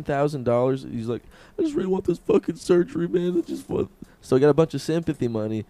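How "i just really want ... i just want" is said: high mock tearful plea; mildly hammed-up weepy begging; imitated crying. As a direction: whine it higher, trailing into a voiceless mock sob. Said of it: "cried on stream".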